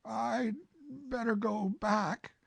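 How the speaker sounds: lightly voiced Winnie-the-Pooh, polite.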